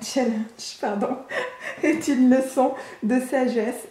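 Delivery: French speaker fumbling an English word in an English accent; self-mocked English accent. Real, not acted. Reader trips on an English word and laughs, self-mocked English accent. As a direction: stumble over the English accent, amused. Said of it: "de mon accent anglais".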